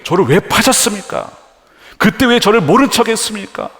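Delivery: mock accusing questions. Joseph imagined confronting the brothers who sold him, mildly accusing. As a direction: put the questions as an imagined reproach. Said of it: "따지거나 분노하지 않는".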